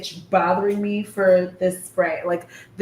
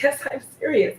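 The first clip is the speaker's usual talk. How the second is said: higher-pitched, retold insistence; insistent; 6 semitones higher than usual. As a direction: insist on it, stretching the yes. Retold repeated insistence, pitch raised.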